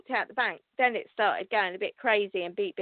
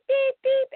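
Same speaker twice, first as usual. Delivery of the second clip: high mock electronic beeps, beep beep; imitated machine beeping; 14 semitones higher, 5 dB louder than usual. Telling viewers about the bank machine, high imitated beeping. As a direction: chirp out the machine's beeping alarm.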